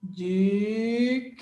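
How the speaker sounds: "Digno" split as a drawn-out "dig", long pause, then "no"; syllable by syllable. Shown as a demonstration. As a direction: stretch and separate both syllables of "Digno". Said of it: "Vamos fazer a separação silábica".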